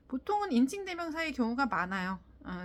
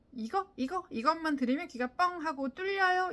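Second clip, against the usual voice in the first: mock sales pitch; 5 semitones higher than usual. Mock sales promise he rejects.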